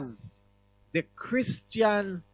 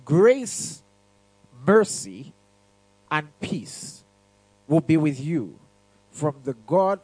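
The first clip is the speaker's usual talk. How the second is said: scripture reading; slower than usual. Acted. Reading scripture aloud to church.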